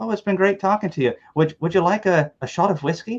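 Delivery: put-on Irish accent. Recounting a woman at a booth offering whiskey, imitating a heavy Irish accent. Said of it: "she had the heavy Irish accent".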